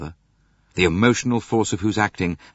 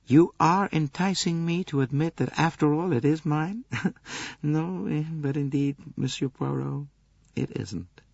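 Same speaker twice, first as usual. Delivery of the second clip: smiling; 7 semitones higher than usual. A narrator's reading. Countess denying the handkerchief, amused then earnest. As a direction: tease him lightly, then turn earnest. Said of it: "She smiled a little".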